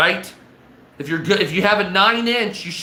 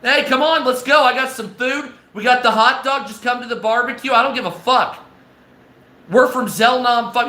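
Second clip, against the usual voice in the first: higher, chummy bro welcome to visiting aliens; greeting the aliens; 4 semitones higher than usual. Retold or imitated. Inviting alien visitors to the barbecue, higher chummy voice. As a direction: pitch it up like a buddy calling friends over. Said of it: "I'd be like".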